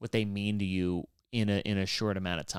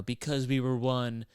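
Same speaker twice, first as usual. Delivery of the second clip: mock poetic. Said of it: "super artistic and poetic".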